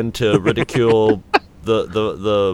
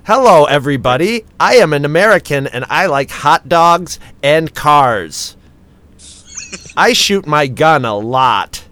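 British-does-American accent; 4 dB louder than usual. Shown as a demonstration. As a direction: fake American accent, every phrase heavily spelled out. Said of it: "doing a British person doing an, uh, American accent".

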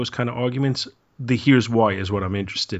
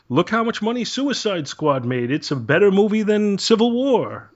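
mock boasting; 10 semitones higher than usual. Mocking online box-office argument.

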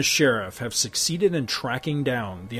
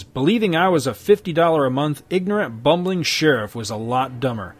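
louder, smug turncoat lawman; sneering sheriff; 3 dB louder than usual. Acted. Crooked sheriff holding Hex at gunpoint, smug. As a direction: lord it over him.

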